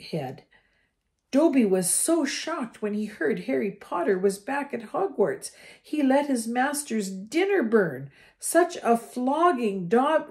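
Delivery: high, loud eager elf; a house elf explaining himself to Harry. A narrator's reading. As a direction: chatter like a nervous little elf. Elf voice held.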